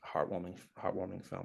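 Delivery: heartwarming with a Boston accent, dropped r. Real, not acted. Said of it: "My Boston accent just came out".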